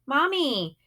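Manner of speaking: high call for his mother; lost in the crowd, calling mom. A narrator's reading.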